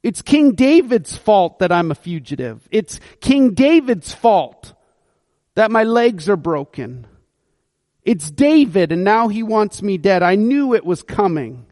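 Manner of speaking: grumbling mock complaint at the king; a touch of bitter blame; frustrated. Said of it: "he's frustrated at King David going".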